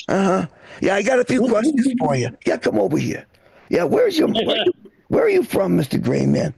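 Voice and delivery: mock Boston tough guy grilling the alien; racist townie interrogating. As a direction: corner him like a suspicious local. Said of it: "racist townie runs into an alien".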